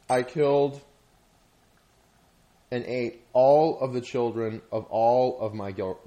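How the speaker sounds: deliberate, halting imitation of a slow voice; really slow. Quoting the animated lion to a friend, slow and emphatic. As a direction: retell it phrase by phrase with long pauses. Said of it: "It was, like, really slow, too".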